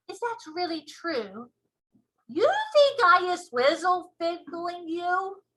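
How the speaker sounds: loud boastful giant; booming giant voice. Acted. BFG offended.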